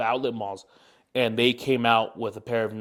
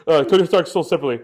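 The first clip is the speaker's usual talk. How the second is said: laughing; 5 semitones higher, 7 dB louder, faster than usual. Real, not acted. Joking about a toy set.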